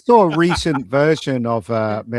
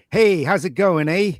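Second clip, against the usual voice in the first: higher-pitched mock Canadian accent; Canadian landlord; 5 semitones higher than usual. Tenant imitating their Vancouver landlord, Canadian accent. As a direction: imitate a cheery Canadian greeting, "eh" on the end. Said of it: "my landlord".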